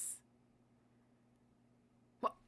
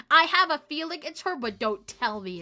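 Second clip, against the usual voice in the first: laughing; 2 semitones higher, 10 dB louder than usual. Real, not acted.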